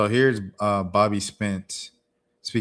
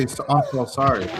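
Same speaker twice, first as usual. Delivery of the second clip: slightly higher mock-weepy voice; mock crying apology; 4 semitones higher than usual. Reactor mocking a clip's tearful apology, mock crying. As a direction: whine out a pretend tearful apology. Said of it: "How you gonna cry and say".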